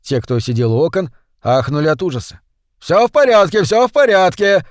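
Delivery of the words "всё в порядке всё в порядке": high, loud, urgent repetition; shouted reassurance. A narrator's reading. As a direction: cry out from your seat to stop a panic. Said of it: "закричал со своего места губернатор Бенбридж". (громкий, высокий успокаивающий крик)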